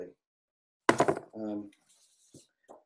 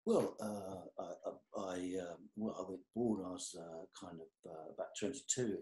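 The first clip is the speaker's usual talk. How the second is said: flustered mumble; 4 semitones lower, 10 dB quieter than usual. Retold or imitated. Retelling own flustered mumbled reply.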